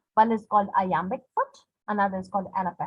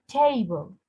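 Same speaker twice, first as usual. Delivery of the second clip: TA in "Table" strong, "ble" unstressed; stress on first syllable. Shown as a demonstration. Teacher showing an unstressed ending, first syllable stressed. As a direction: lean on TA, let "ble" drop in "Table". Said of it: "bow will be".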